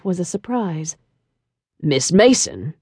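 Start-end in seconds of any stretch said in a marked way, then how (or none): 1.8-2.7 put-on deep French-accented man. A narrator's reading. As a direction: lower male voice, a trace of French. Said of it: "deep tone of his voice with its seductive trace of a French accent".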